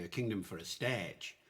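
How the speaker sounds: "stage" said with a long open eh vowel; original pronunciation. Shown as a demonstration. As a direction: say "stage" the old way, like "stehdge". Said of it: "when people hear that opening of Henry the Fifth".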